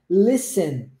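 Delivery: "listen" going straight from S to E; silent T. Shown as a demonstration. Teacher showing students the word, silent T in "listen". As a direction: say "listen" as LIS-en, no T. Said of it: "Você vai do S pro E direto".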